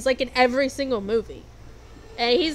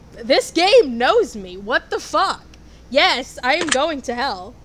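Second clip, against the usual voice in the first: excited outburst; 3 semitones higher, 7 dB louder, slower than usual. Real, not acted. Quiz guesses she's hell-bound.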